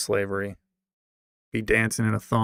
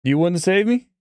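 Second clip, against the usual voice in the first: higher, louder cry of betrayal; mock outraged yell; 8 semitones higher, 8 dB louder than usual. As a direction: throw the question like a hurt accusation.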